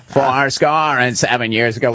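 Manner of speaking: imitating creaky vocal fry; low creaky fry reading a speech. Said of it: "he would".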